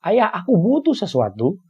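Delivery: put-on high, slow child's shout; calling out. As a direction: call out to dad, stretching each word. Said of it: "Ketika dia berteriak misalnya".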